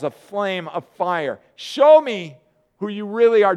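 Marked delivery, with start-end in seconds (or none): 1.6-3.6 pleading plea. Acted. Moses pleading with God.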